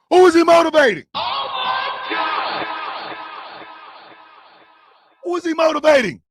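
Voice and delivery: loud, high outraged disbelief; incredulous shout. Real, not acted. Comedian reacting to the rival's bio, shouting in disbelief. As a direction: yell it like it's absurd.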